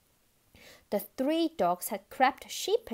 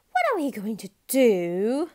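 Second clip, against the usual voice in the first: moaning; 8 dB louder than usual. A narrator's reading. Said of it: "moaned Big Bob".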